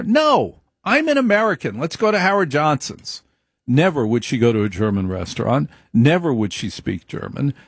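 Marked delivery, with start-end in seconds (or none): 0.0-3.2 high-pitched imitation of an old grandmother; grandmother's denial. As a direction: play the proud immigrant grandmother, voice pitched up. Grandmother refusing beer garden.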